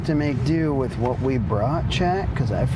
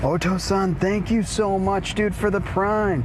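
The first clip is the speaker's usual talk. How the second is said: excited thanks; 3 semitones higher than usual. Real, not acted. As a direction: hype up the thank you. Streamer thanking subscriber, lively.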